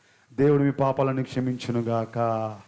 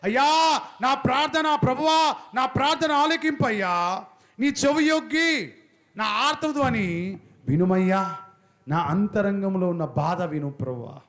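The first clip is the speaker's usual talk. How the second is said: high, slow, crying-out plea to God; paralysed man's plea; 5 semitones higher, 3 dB louder, slower than usual. Retold or imitated. Preacher voicing the paralysed man's prayer, high and pleading. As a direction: beg like a helpless sick man. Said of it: "ఆ పక్షవాతంతో ఉన్నవాడు ఏమని ప్రార్థన చేస్తున్నాడంటే".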